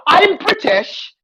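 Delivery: slow, high put-on British accent; mock British accent. Mocking British actor: slow high British accent. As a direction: drawl it like a snooty Brit.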